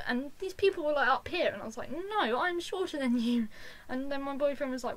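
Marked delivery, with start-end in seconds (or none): 1.9-3.5 loud, high, drawn-out protest; indignant refusal. Retold or imitated. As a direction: imitate standing your ground in a crowd. Acted refusal to pushy fans.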